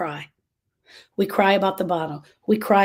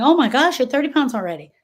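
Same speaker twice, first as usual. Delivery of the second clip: surprised; 5 semitones higher, 4 dB louder than usual. Retold or imitated. Surprised at daughter's weight.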